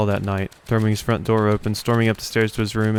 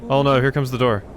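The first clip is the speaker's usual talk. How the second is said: put-on higher, lively kid voices; voiced boy characters; 6 semitones higher than usual. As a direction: play two excited boys exploring. Boys voiced in game story.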